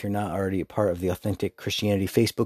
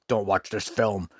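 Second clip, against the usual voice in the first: imitated prim reviewer. Parent reviewer warning others off a film, mock disapproval. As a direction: put on a scolding film critic. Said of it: "exactly what the person sounded like".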